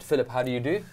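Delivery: formal greeting. Shown as a demonstration. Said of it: "So let's try that".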